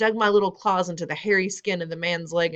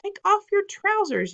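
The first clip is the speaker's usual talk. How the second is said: high, slow mocking shout; 14 semitones higher, 3 dB louder than usual. A narrator's reading. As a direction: jeer at him loudly. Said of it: "someone else shouted".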